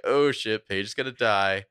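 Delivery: mock panic at the screen; alarmed exclamation. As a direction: blurt it out like you just saw danger. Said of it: "you're like".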